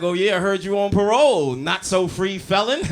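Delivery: mocking comeback. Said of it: "I'm like".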